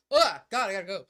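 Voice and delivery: loud, grudging groan of a tired runner; mock-weary loud sigh of effort; reluctant groan. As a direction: groan it out like you'd rather not go.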